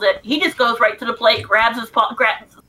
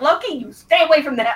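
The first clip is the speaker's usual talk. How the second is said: firm, acted-out scolding, yelled; 4 semitones higher than usual. Retelling yelling at an animal that went after food: imitating own yelling. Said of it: "Miles heard me yelling at Loki".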